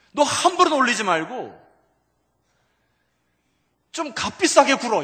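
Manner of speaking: stern, high-pitched, loud voice. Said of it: "이런 것 같아요, 주님".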